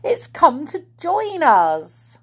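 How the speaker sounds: high, loud, stretched-out joy; excited cry. A narrator's reading. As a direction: announce it with slow, rising excitement. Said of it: "cried Silky excitedly".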